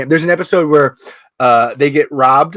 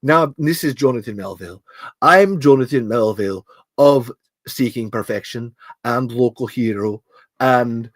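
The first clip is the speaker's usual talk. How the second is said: put-on Scottish accent; 2 semitones lower than usual. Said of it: "I've gone Scottish".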